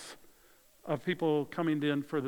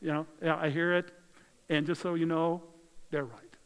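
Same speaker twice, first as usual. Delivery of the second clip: casual Jesus. Acted. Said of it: "And Jesus said to them".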